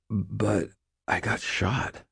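soft, slow weary mumble; mumbling. A narrator's reading. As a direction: mumble it half awake. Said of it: "I mumbled".

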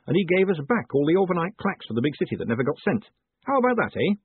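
chatty mayor airing a grievance, pitch swinging up; eager mayor, grumbling. Acted. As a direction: grumble with lilting indignation, then proudly confide. Narrator voices the mayor complaining.

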